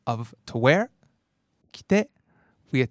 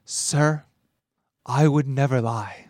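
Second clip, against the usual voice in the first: over the top; slower than usual. Shown as a demonstration. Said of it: "the really over the top".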